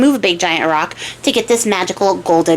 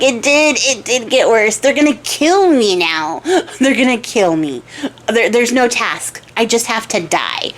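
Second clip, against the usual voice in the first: hammed-up tearful lament; mock crying. Archer crying to his horse about his death, mock tearful. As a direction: lament in a lightly tearful, drawn-out way. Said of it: "he's crying the whole way there".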